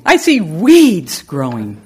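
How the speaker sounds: slow down and savor "see"; weighty emphasis. Shown as a demonstration. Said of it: "I just don't see".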